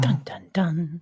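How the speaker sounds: slow whispered suspense sting; dramatic whisper. Pretend. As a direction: breathe it out ominously. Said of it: "That's usually my line".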